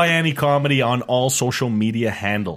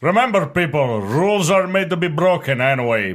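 comedy character voice; 5 semitones higher, 3 dB louder than usual. Acted. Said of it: "Give me some peeps".

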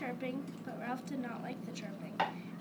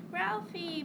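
high, loud greeting shout; excited scream; 5 semitones higher, 5 dB louder than usual. A narrator's reading. Bob greets his brother at the hotel, screaming. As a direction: call out his name, thrilled. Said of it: "Bob screamed".

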